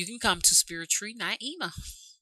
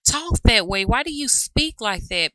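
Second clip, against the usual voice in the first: higher, louder mock question; quoting a questioner; 8 semitones higher, 5 dB louder than usual. Vlogger repeating a commenter's question about her speech, lightly mocking. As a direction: lightly imitate a puzzled commenter. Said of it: "Even had somebody on there saying".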